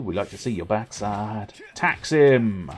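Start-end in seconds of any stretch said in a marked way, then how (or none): 1.7-2.7 loud shouted command; mock battle cry. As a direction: bark it like a rallying cry. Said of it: "we've seen tax hims before".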